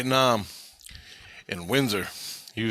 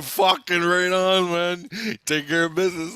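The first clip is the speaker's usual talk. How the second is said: excited approval; 5 semitones higher, 4 dB louder than usual. Retold or imitated. Cheering the veteran's retold words.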